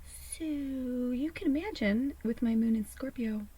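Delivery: a slow, breathy conspiratorial whisper. Real, not acted. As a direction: let us in on it in a whisper.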